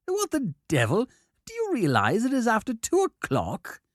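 put-on high, sharp, irritated old scholar; irritated professor. A narrator's reading. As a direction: bark it out, woken and annoyed.

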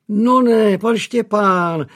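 high, loud delighted cry of a maid at the door; surprised and thrilled to see him; exclaiming in surprise. A narrator's reading. Maid surprised at the door by young master. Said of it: "vykřikla služebná Elspeth".

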